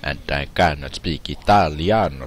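hammed-up Italian English; fake Italian accent. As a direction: put on a mock Italian accent. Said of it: "Try to do a fake Italian accent".

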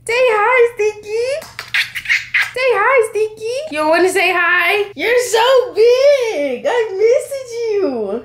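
high, sweet cooing. Real, not acted. Mother asking baby to greet viewers, high cooing.

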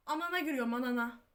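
loud and furious, fed up with being asked; real anger. Real, not acted. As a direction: let the fury at the question burst out. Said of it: "Çok sinirlendim şu an".

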